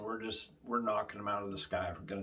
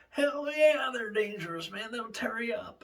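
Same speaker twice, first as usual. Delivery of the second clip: high and loud, fired-up yes; emphatic agreement; 10 semitones higher, 3 dB louder than usual. Retold or imitated. Russell agrees hogs are dangerous: excited high exclamation. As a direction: blurt it out, all worked up.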